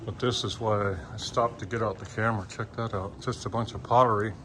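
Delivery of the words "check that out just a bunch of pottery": talking around a stick in mouth; words muffled by a stick held in teeth. Real, not acted. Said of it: "talking with a stick in my mouth".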